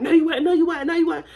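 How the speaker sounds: high, repetitive contradiction; rapid-fire motherly denial; mama yelling. Retold or imitated. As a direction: imitate mom refusing to listen, talking over her kid. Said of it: "she's down hard yelling at me".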